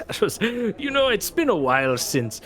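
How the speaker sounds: Yusuf's voice. Acted. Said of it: "Yusuf's like".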